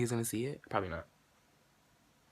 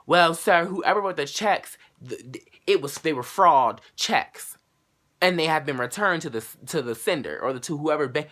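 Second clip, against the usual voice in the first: rude bank clerk; 4 semitones higher, 4 dB louder than usual. Retold or imitated. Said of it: "getting rude as shit".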